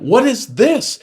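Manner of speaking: retelling a sharp incredulous question; mock surprise. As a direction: squeak out the question in fake disbelief. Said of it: "and I went".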